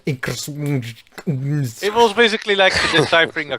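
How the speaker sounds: talking through a real laugh; slow down as laughter breaks in; amused laughing. Real, not acted. Amused at absurd puzzle.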